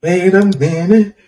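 slow, muffled mock echo; muffled wah wah talk. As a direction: imitate muffled adult talk. Mocking co-host's muffled talk.

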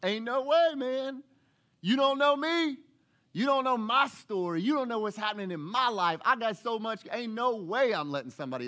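high, loud, defensive protest; defensive churchgoer. Retold or imitated. Churchgoer protesting to the preacher, high and loud. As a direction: push back hard. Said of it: "you're going".

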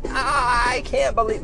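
imitating wife. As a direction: mimic an exclaiming wife up high. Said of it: "and then my wife was like".

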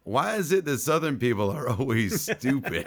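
put-on coworker's Southern accent, lightly done; mild mock Southern accent; imitated Arkansas accent. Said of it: "he had a Southern Arkansas accent".

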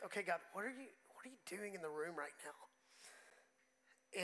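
slow, soft retold prayer; hushed prayer. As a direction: murmur the prayer slowly, inwardly.

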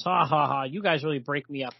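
imitating a guy laughing it off; lightly acted, amused scoffer; mock laughing. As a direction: read out a hearty mock "ha ha ha". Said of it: "there's some guy here laughing".

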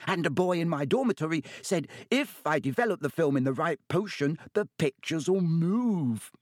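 put-on eager boy. A narrator's reading. Colin gushing to Harry.

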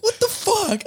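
very high mock "What the fuck?"; retold outrage. Retold reaction to Liam pulling the reader, squeaky outrage. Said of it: "And I'm like".

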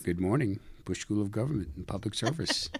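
polished customer service greeting; smooth radio phone manner. Shown as a demonstration. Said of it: "that radio voice".

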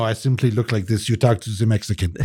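badly faked French accent; shitty French accent. Clueless tourist in Germany deflecting, shitty French accent. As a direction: put on a lousy French accent. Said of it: "do a shitty French an-, accent".

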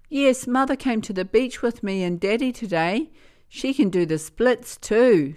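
a hint of a chatty little girl; girl telling her grandmother about the beach, childlike. A narrator's reading.

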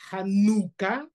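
HANUKKAH drawn out on NU; ordinary nun. Shown as a demonstration. Teacher contrasting the nun inside a word, stressed NU. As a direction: lean slowly on the n of "Hanukkah". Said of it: "es diferente".

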